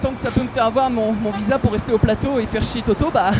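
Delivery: chirpy lady who doesn't care; a woman passer-by answers the interviewer in a high voice; Marie-Claude voice. Pretend. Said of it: "C'est Marie-Claude, ça?".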